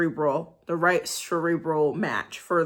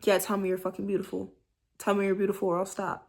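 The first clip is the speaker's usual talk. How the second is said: an affectionate, possessive purr; loving dirty talk; 3 dB quieter than usual. Shown as a demonstration. Showing how lovers could talk lovingly in bed. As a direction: say it like a caring lover. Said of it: "Why can't they be like".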